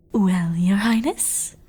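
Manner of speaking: forced praise squeezed through gritted teeth; through clenched teeth. Acted. Celestia forcing praise for her garish makeup, through gritted teeth. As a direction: grit your teeth and fake a compliment. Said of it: "said through clenched teeth".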